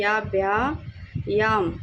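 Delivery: याम with a clear final m sound; dot read as m. Shown as a demonstration. Teacher showing how the dot is read, clear m in याम. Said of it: "इसको म पढ़ना है".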